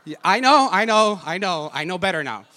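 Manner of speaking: high, loud laughing through it; laughing it off, fading down; laughing admission. Real, not acted. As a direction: own up with a laugh.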